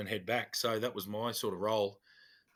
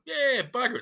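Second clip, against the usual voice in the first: sudden high, loud burst; half-laughing shout of giving in; gleeful yes; 13 semitones higher, 8 dB louder than usual. Retold or imitated. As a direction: throw caution to the wind, loudly. Agreeing to a Christmas beer.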